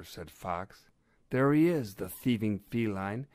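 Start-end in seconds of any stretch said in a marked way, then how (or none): 1.3-3.3 raised voice, pointing out the culprit; excited cry. A narrator's reading. Badger seeing the thief escape by balloon, crying out. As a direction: cry out as the thief gets away. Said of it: "cried Badger".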